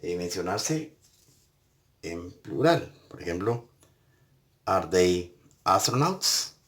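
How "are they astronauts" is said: slow, careful classroom question with astronauts? rising; slow teacher demo of a question; slow model question. Shown as a demonstration. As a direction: spell it out slowly for learners. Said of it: "piensen ustedes una palabra".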